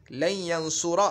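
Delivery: "यंसुरा" ending in an open -a; "यंसुरा", last vowel turned to a; changed -a ending. Shown as a demonstration. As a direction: say "यंसुरा" with final -a instead of -u. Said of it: "आखिर में तब्दीली आ गई".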